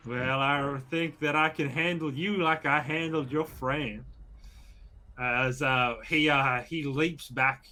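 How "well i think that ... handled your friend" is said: lightly drawled Southern threat. Acted. Bandit threatens the attacker's ally, understated southern drawl. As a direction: menace them with a hint of Southern drawl. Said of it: "The southern drawl".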